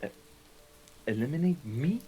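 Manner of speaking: high, loud desperate begging; panicked pleading. Acted. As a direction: beg the boss for your life. Henchman begging for his life.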